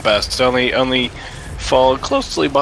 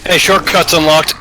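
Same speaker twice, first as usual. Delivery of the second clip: excited shout; 3 semitones higher than usual. Real, not acted. Shortcut opened in game.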